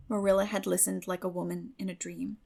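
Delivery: ordinary delivery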